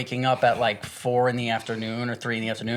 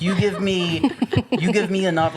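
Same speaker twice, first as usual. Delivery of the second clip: laughing; 6 semitones higher than usual. Real, not acted. Laughing about pills.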